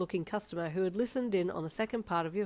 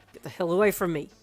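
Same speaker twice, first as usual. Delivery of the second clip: yell; 8 dB louder than usual. Acted. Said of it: "he yelled".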